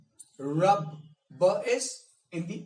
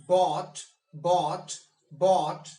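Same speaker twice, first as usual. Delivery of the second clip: "bought" said on its own, louder and falling; word by word; 6 dB louder, much slower than usual. Shown as a demonstration. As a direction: give each "bought" its own weight. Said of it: "pronounce the words one by one".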